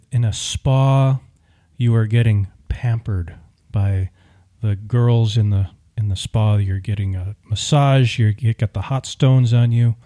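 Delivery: slow, calm guided imagery; soothing visualization. Shown as a demonstration. Husband guiding wife to imagine a spa, slow and soothing. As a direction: lull her into a relaxing spa picture. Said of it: "maybe you need to do visualization".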